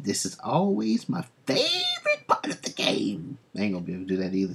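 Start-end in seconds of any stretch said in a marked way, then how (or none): 0.0-3.4 squeaky falsetto, much higher; silly high voice. Acted. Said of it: "That voice is so high".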